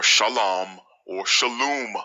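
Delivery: first "shalom" as sha-LAHM, second "shalom" as sha-LOOM; "shalom or shalom" drawn out, ah then oo; mock mispronunciations. Shown as a demonstration. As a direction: say "shalom or shalom" slowly with two wrong vowels. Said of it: "These pronunciations are coming from ignorant people".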